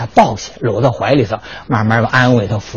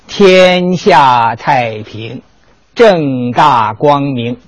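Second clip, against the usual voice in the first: slow dictation; much slower than usual. Shown as a demonstration. Teacher writes characters for emperor.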